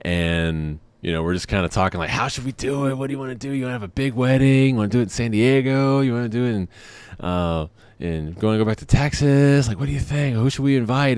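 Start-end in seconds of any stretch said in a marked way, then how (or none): 2.1-11.2 giddy planning. Retold or imitated. Excited wedding planning chatter.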